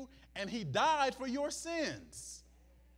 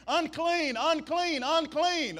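higher and louder repeated cry; mock scream; 7 semitones higher, 6 dB louder, slower than usual. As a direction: call it out like a warning crowd. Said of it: "The people would scream".

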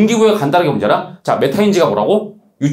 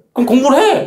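high, exasperated mock order; mock command; 11 semitones higher, 4 dB louder than usual. Teacher ordering an uneasy student to study, mock command. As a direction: snap it out high and forceful.

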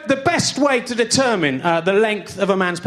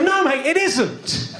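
higher-pitched exasperated correction; indignant; 4 semitones higher than usual. Acted. Comic telling off a mate over his potato, indignant. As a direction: put him right, indignant and high.

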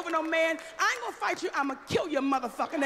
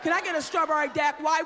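mock husband mispronouncing; 4 dB louder than usual. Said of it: "ordering shit he can't pronounce".

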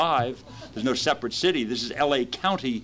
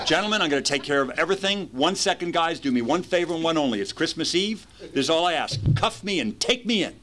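higher, overly polite faking-sober voice; put-on sober voice; 5 semitones higher than usual. Drunk driver pleading politely with deputies, higher faking-sober voice. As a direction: sound sober and charming for the cops. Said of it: "I'm talking kind of in this voice".

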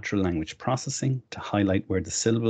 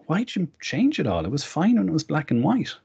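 a higher, quizzical voice for someone else; puzzled onlooker; 9 semitones higher than usual. Retold or imitated. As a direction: mimic a baffled classmate questioning the changes. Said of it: "they would go".

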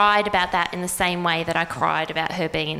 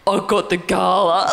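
casual announcement; 3 semitones lower than usual. Retold or imitated. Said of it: "like that".

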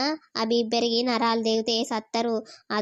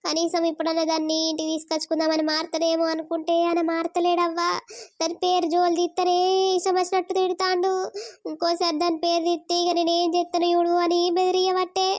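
higher-pitched, tearful lament; tearful complaint; 5 semitones higher than usual. Acted. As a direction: pour out the hurt, close to crying. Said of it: "నువ్వెందుకు అంతగానం ఏడుత్తన్నావు".

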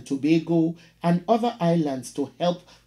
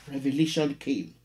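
measured, dramatic poetry reading; poem reading. Acted. Teacher reading a poem to the class, dramatic recital. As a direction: read it like a performed poem, every image weighed. Reads poem Telephone Conversation aloud.

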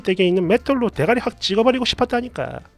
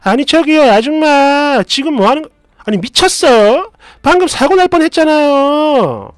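furious shouting; 5 semitones higher, 7 dB louder than usual. Acted. Driver yelling at woman after near accident, furious shout. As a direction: holler in disbelief at reckless driving. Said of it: "저도 극대노를 했죠".

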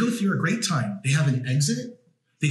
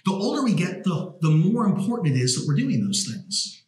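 raised, fired-up preaching delivery; 4 semitones higher than usual. Real, not acted. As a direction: preach it like a pulpit sermon to the converted. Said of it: "'Cause you're preaching".

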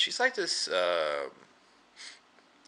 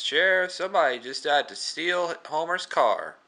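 urgent report; 9 semitones higher, 3 dB louder than usual. Retold or imitated. Reporting car theft to sheriff.

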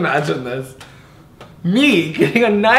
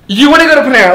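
incredulous mocking echo; 6 semitones higher, 7 dB louder, much faster than usual. Real, not acted. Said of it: "I fucking can't".

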